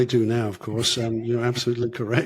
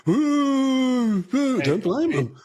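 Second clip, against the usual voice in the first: laughing ooh; 12 semitones higher, much slower than usual. Real, not acted. Laughing reaction to Canada booing.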